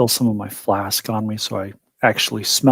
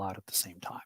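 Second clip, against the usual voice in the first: whispering; 4 semitones lower, 20 dB quieter than usual. Real, not acted. Player whispering plan aside.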